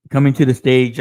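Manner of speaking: loud announcer call; stripper club announcer. Retold or imitated. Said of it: "I always think of a fucking stripper".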